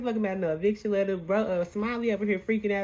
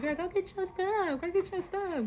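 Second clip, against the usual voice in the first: mock Suki voice; 12 semitones higher than usual. Friends urging Biggie, high voice.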